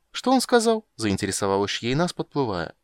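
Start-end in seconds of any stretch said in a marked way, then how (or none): 0.1-0.9 much higher, eager question; a siren leaning in to hear; curious siren. Acted. Siren voiced in high register.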